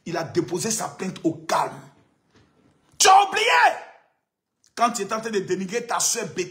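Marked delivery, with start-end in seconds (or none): 3.0-3.5 loud, high shout. Real, not acted. Reminding Johnny of a singer's complaint with a shout. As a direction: hit "Tu as oublié" hard and high. Repeated taunt, plain then shouted.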